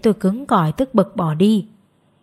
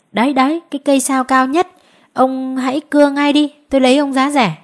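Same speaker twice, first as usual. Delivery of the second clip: higher, animated tree owner; eager offer; 6 semitones higher, 4 dB louder than usual. A narrator's reading. Owner offers his tallest tree cheaply, eager. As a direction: urge him on in a raised, lively voice.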